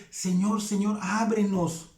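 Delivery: insistent, slowing plea to open the door; desperate pleading. Retold or imitated. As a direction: knock and beg, mildly desperate. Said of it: "van a venir desesperadas a decir".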